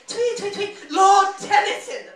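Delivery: put-on high English-accented chirps, then a loud, slow name; snooty English bird. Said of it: "sort of like assholey birds".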